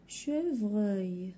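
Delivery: Chevreuil drawn out in two syllables. Shown as a demonstration. Teacher showing the last syllable, syllable by syllable. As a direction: stretch both syllables of Chevreuil. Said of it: "هادو كلهم في la dernière syllabe".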